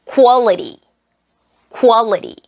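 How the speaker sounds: "Quality" said "koo-AH-li-ri". Shown as a demonstration. Teacher models for learners, "Quality" as "koo-AH-li-ri". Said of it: "그 발음으로 한번 해볼게요".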